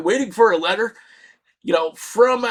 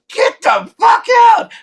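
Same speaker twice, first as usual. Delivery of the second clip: high, loud mock police yell; imitating cops screaming; 14 semitones higher, 7 dB louder than usual. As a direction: bark it like a panicked cop. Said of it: "the cops start screaming at us".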